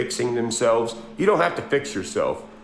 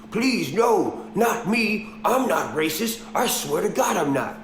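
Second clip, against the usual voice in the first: lightly acted pleading, pitched up at the start; mock begging; 5 semitones higher than usual. Mimicking country singers coming out saying sorry, mock pleading. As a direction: imitate someone begging for forgiveness. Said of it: "begging for forgiveness".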